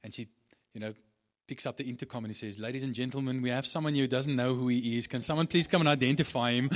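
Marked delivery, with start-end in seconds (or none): 2.6-6.7 mock announcement. Counter lady on intercom.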